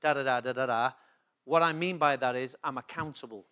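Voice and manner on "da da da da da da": low, rapid rattled-off mock argument; mimicked objection. Preacher voices listeners trying to tie him in knots, mimicked objection. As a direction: rattle off an imagined critic's quibble, tailing into da-da-da. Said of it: "try and tie me in knots and say".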